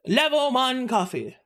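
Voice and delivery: high-pitched imitation of a Japanglish accent. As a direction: copy a Japanese-accented English line. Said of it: "I love the Japanglish accent".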